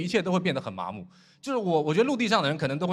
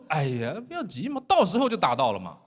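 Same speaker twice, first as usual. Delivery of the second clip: calm, unhurried. Retold or imitated. Captain soothes crew after missed test shots, calm. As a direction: reassure them as if nothing is wrong. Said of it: "船长就很淡定".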